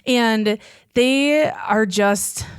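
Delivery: choking up, slow and halting; teary-eyed. Real, not acted. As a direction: voice catching with tears. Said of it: "I get a little teary-eyed".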